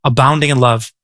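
slow, solemn proclamation; God declaring. Retold or imitated. God declaring himself to Moses, slow and solemn. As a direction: proclaim each name weightily. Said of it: "And he said".

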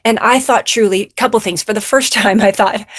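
usual speaking voice

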